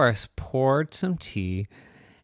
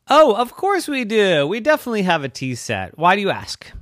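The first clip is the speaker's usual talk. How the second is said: cheerful high T-Rex voice; 10 semitones higher, 8 dB louder than usual. Acted. T-Rex voice answering.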